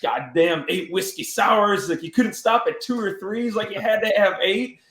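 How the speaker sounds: mock self-scolding. Quoting Rick scolding himself.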